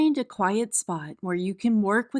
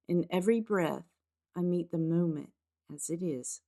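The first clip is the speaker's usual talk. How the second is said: unhurried meditation guide with spacious pauses; guided meditation. Acted. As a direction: gently lead them into the practice, phrase by phrase. Leads a grounding meditation.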